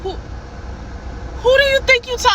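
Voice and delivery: high, slow mock outrage; mocking the manager. Imitating the manager scolding her, high and slow mock outrage.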